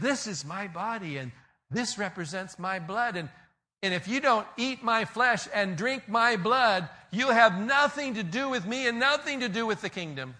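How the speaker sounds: loud, high, commanding proclamation, slowing on the flesh line; forceful Jesus. Acted. Preacher voicing Jesus to the crowd, loud and commanding. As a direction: thunder out his hard words.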